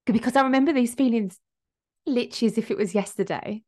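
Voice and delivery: emotional. Real, not acted. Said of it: "getting emotional".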